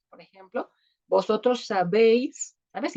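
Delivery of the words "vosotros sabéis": "sabéis" slowed, with the accent on the final "béis"; stress on final syllable. Shown as a demonstration. Teacher shows the Spain conjugation, final-syllable stress on "sabéis". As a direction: lean slowly on the "éi" of "sabéis". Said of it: "lleva acento en la E".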